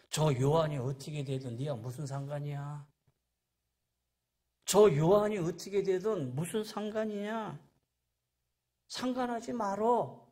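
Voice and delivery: mild rebuke cutting off the question; acted brusque dismissal. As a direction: shut the questioner down. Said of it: "묻자르듯이 딱 자르는 말씀".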